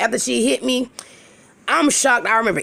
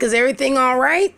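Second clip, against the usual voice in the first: higher-pitched innocent question, rising at the end; playing dumb; 5 semitones higher, faster than usual. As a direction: ask it as if you suspect nothing. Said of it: "So I play dumb".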